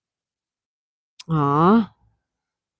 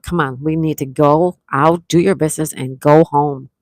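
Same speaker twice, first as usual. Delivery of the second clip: louder, firm call to a dog; urging dog; 5 dB louder than usual. Retold or imitated. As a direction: hurry the dog along, louder. Urging her dog during walk.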